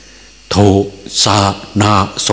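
a hushed, eerie drawn-out chant from the dark; ghostly night voice. Retold or imitated. Monk voicing the midnight ghost cry, hushed and eerie. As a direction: breathe the syllables like a voice in the night. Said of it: "เสียงสี่".

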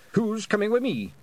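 high, loud Scottish rallying cry; battle rally. Acted. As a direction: call them to the fight. Sword drawn, rallying.

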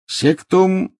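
high, loud shouted incantation; shouted spell. A narrator's reading. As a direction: hurl the spell. Harry casting spell in rage.

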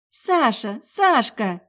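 calling a name from afar. Acted. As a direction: call out across the room. Katya calls out from behind.

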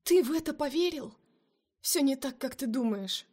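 woman shouting her innocence. A narrator's reading. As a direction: scream it out, pleading. Lina shouting at Vlad.

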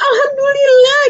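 high, weepy retold thanksgiving; imitated tearful thanks. Mother embracing her daughter, imitated as tearfully thankful. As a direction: give thanks as if through tears. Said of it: "sambil nangis, bilang".

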